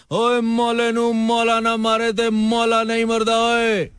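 slow, menacing villain dialogue; commanding threat. Shown as a demonstration. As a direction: drag it out like a film villain. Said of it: "original dialogue है, जरा रोब चाहिए". (रोबदार धमकी भरी आवाज)

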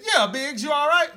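loud high call across the yard. Retold or imitated. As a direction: shout his name from the doorway. Calling out to Biggs outside.

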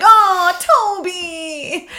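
high, delighted cry to the dog; excited greeting. Retold or imitated. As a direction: greet the returning dog with joy. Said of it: "And they're like".

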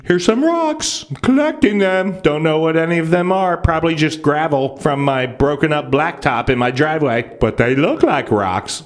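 clueless rock collector. Retold or imitated.

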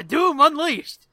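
booming mock title; mock announcement. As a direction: announce it big and drawn out. Announces a segment mock-grandly.

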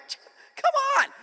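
high, quick cry of protest; exasperated yelp, retold; exasperated outburst. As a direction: burst out loud like a fed-up kid. Retelling exasperated reply to mom.

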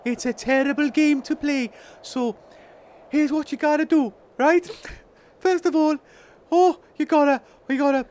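lightly voiced little goblin; Toodle Pip. Goblin explaining a game to players, lightly put-on voice.

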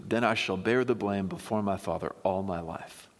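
measured, earnest reading of a plea; expressive Bible reading, phrases starting strong and falling away; scripture reading. Acted. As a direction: read scripture aloud with weight and pauses. Reads the scripture chapter aloud.

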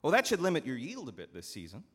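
a sly steward pressing his point; scheming steward. Acted. Steward coaxing the farmer, smooth and persuasive.

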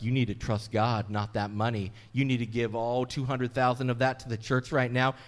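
mocking a church pressuring a widow, loud and pushy. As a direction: lean on her hard for the check. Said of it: "the church was like".

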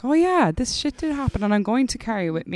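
high, bright-eyed mock rally cry; a touch of mock defiance; defiant enthusiasm. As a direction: play it like a proud rallying shout. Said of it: "we were all like".

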